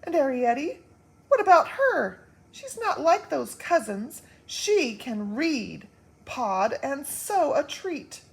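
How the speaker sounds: loud, high worried pleading; anxious pleading. Acted. Wife pleading about their daughter, loud anxious voice. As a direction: press him hard about their daughter.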